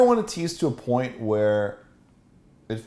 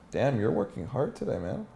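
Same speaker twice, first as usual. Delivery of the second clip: mildly sarcastic mock praise; dry, understated sarcasm; 2 semitones higher, 4 dB quieter than usual. Shown as a demonstration. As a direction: feign being impressed by a slacker.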